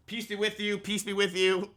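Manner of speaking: soft, hushed mock blessing; hushed priestly greeting, trolling. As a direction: murmur it like a priest teasing.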